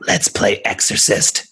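a teasing, inhuman whisper; creepy spirit voice. Acted. Spirit mocks investigator Ed, teasing creepy whisper. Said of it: "that voice came from her".

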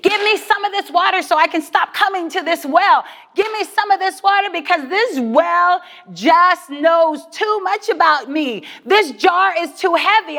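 earnest pleading to the Lord; weary woman pleading for water. Acted. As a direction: beg for relief, worn out. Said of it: "She is pleading".

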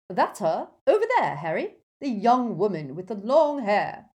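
loud, high, emphatic call; high, insistent character voice; ghost pointing someone out. Acted.

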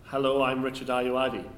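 half-hearted impression, slightly slow; barely change your voice for the impression; Richard Ayoade. Reluctant host pressed by friends, half-hearted impression. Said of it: "do, do the impression".

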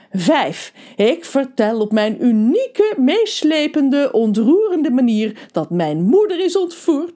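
loud, animated recap narration; energetic storyteller catching the listener up; lively story recap. A narrator's reading. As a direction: punch out the recap with big emphasis.

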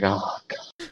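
very soft, low groan of dismay; hushed, weary put-on exasperation; exasperated serious type. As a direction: mutter it low, as the serious one despairing. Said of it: "trying to be really serious about it".

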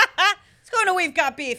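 laughing through the segment title. Real, not acted. Host laughing while announcing We've Got Beef. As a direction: giggle out the show segment name.

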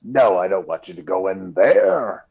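lightly imitated low dub-actor voice; typical dubbed man. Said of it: "Most of the men have the typical".

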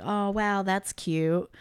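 lightly mock condescension, kept soft; condescending. Friend hearing of Corey's plan in a retold scene, mildly condescending. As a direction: imitate a softly patronizing compliment. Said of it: "condescending about it".

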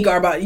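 garbage said as gar-BAHZH; fancy pronunciation. Shown as a demonstration. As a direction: give garbage a mock-French ending. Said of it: "for me, garbage".

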